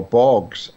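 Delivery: Bourges said as "borgs"; unsure pronunciation. Real, not acted. Driver guessing a French town's name, Bourges as "borgs". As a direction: say Bourges as one syllable, "borgs". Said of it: "if however it's pronounced".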